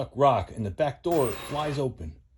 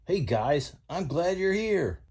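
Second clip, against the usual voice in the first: Mater voice; 6 semitones higher, slower than usual. Acted.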